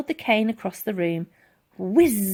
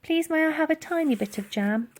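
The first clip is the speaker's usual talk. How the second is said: put-on begging girl; 7 semitones higher than usual.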